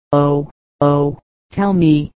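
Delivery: breathless, anxious gasp. A narrator's reading. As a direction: gasp it out in panic. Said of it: "he gasped".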